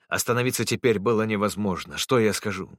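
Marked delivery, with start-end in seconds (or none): none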